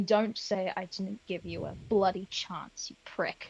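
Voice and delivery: whispered very close up. Retelling what one man whispers up close to another before knocking him out, whispering. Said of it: "I'm going to whisper".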